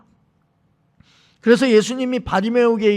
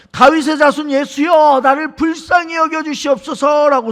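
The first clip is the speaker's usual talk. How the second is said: higher, louder imitation of a beggar calling out; retold cry for mercy; 4 semitones higher, 4 dB louder than usual. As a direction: call out to be pitied, acting the blind beggar. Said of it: "이렇게 외칩니다". (높은 목소리로 자비를 구하며 외치는 흉내)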